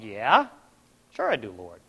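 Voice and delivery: low, uncertain YEAH rising, then soft; hesitant answer. Retold or imitated. Man answering God's question, tentative. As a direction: answer softly, a little unsure.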